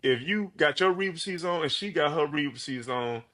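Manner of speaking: motivational speech. Pretend. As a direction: speak like a coach lifting up a friend. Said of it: "give me the best motivational speech".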